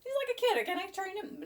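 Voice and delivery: high, worried self-question; doubtful inner voice. Retold or imitated. Owner doubting she can train her puppy, high and worried. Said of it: "I thought".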